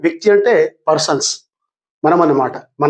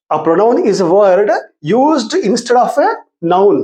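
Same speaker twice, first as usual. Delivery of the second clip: very slow, word by word for writing; teacher dictating a definition; slow dictation; much slower than usual. Shown as a demonstration. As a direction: spell it out slowly for the class to copy. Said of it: "please write down".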